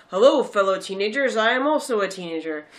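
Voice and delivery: lightly put-on trying-too-hard teen; mock fake teenager. Mocking the movie's outdated teen lines, fake teenager voice. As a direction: imitate someone badly posing as a teenager. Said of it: "comes across as now".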